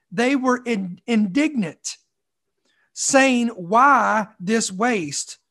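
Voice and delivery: measured, reverent Bible reading; scripture reading. Acted. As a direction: read the passage with solemn weight. Reads scripture aloud.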